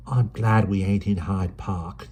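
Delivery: brisk London urchin, chatty; Dido's voice. Acted. Dido remarks.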